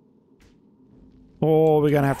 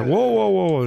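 startled; 5 semitones higher, 3 dB louder than usual. Real, not acted. Startled in game.

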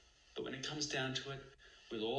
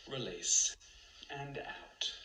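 slow soothing meditation guide; much slower than usual. Acted. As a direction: breathe it out like a calm instructor.

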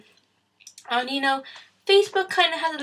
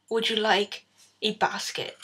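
creepy shop assistant. Retold or imitated. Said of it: "She comes up frickin' behind you".

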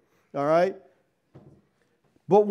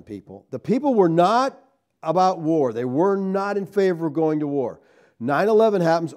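normal talking voice

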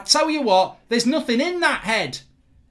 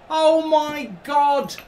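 stunned disbelief; much slower than usual. Real, not acted. Stunned at the replay.

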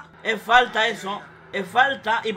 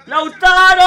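shout; 3 semitones higher, 11 dB louder, slower than usual. Real, not acted. Calling out a player's name.

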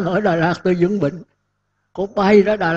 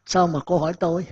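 ordinary delivery

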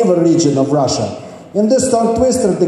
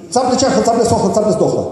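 tongue twister; much faster than usual. Shown as a demonstration. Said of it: "repeat those tongue twisters after me".

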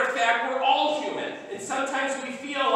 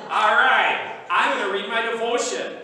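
mock routine; 2 semitones higher, 6 dB louder than usual.

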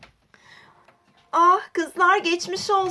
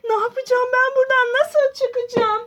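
desperate pleading; 5 semitones higher than usual. Acted. Aden hücrede çaresiz.

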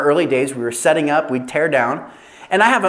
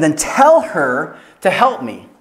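Martha demanding; slower than usual. Acted. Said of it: "she says at the end".

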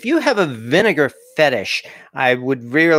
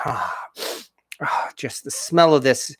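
whispering. Real, not acted. Savoring the food's smell.

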